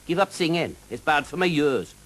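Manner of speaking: high, lilting Welsh dragon voice, friendly and teasing; a jolly Welsh dragon drawing out his words. Acted.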